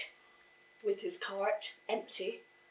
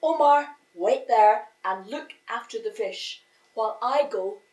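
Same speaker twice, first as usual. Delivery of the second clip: excited father; 8 dB louder than usual. A narrator's reading. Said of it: "all excited".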